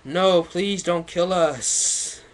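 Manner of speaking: high, loud, slow hammed-up plea; mock pleading. Gothic men begging the shooter, hammed-up pleading. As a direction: overplay the begging victims. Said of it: "They pleaded".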